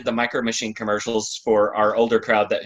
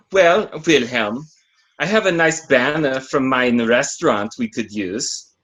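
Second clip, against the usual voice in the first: put-on German accent; 2 semitones higher than usual. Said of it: "I need to work on my German accent".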